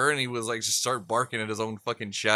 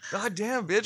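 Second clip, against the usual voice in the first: mock exasperation; 10 semitones higher than usual. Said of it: "I'm like".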